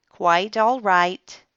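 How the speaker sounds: slow stiff grudging words; mumbly. Acted. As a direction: drag it out tightly. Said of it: "kind of mumbly".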